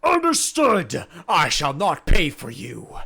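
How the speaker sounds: big earnest himbo, loud and proud; dopey sweet himbo. Acted. Bang agrees.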